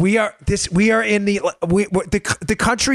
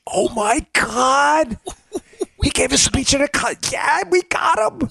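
breathless, high-pitched mock scandal; mock outrage; 6 semitones higher than usual. Mocking a news story as big breaking news, mock-excited. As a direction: play it as a huge scoop.

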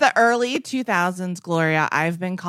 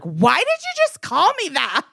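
puzzled person; 8 semitones higher than usual. Retold or imitated. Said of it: "people were like".

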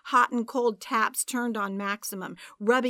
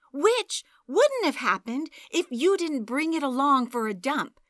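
angry retort; 4 semitones higher, 5 dB louder than usual. Acted. Angry quarrel over ruined book.

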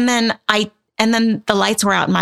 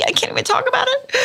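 nervous laugh. Real, not acted. Creeped out by the case.

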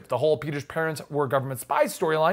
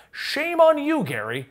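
mock scolding; 7 semitones higher, slower than usual. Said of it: "put down below".

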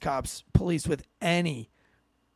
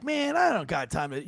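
mock New York accent; 4 dB quieter than usual. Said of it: "with that New York accent".

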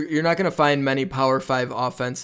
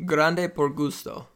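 Spanish accent. Shown as a demonstration. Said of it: "my Hispanic accent is terrible".

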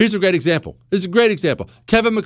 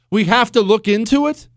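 higher, rising disbelieving question; incredulous echo; 7 semitones higher than usual. Real, not acted. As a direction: throw the phrase back as a question. Echoes the vague phrase in disbelief.

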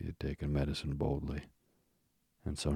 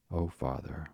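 exclaiming. Acted. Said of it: "Wendy exclaimed".

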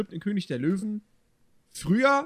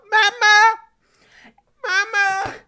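high, wailing little fawn; crying child voice; 8 dB louder, much slower than usual. Retold or imitated. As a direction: cry out for mama like a lost child. Bambi crying for mother.

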